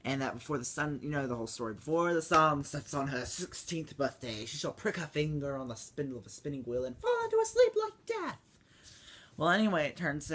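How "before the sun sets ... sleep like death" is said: lightly voiced curse, a hint of a villain; Maleficent's curse. Kid retelling Maleficent's curse, lightly voiced. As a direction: pronounce the doom with the last word jumping up. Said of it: "talks about".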